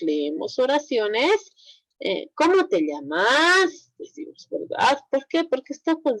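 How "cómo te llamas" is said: rising question tune on "¿Cómo te llamas?". Shown as a demonstration. Teacher showing students a real question, rising tune. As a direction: ask "¿Cómo te llamas?" slowly, voice rising at the end. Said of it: "A diferencia de decir".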